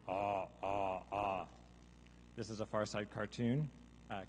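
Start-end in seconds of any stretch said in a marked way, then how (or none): 0.1-1.5 understated drawn-out zombie "ah"; restrained undead moans; zombie possession call. Shown as a demonstration. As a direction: groan it evenly like a zombie. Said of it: "and in zombie".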